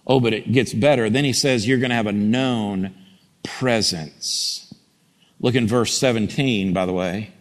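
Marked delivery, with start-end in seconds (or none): 1.7-4.7 lower, hushed voice of God; a hint of a tender God; lightly voiced God. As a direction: speak God's promise low and intimate. Voicing God softly.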